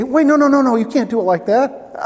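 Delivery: hammed-up objection; mock protest.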